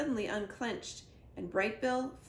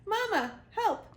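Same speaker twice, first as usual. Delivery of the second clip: high, loud plea to his mother; gosling screaming for his mother, high and loud; crying for help; 12 semitones higher, 5 dB louder than usual. Acted. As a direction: cry out as he's pulled up. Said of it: "cried Bright Bill".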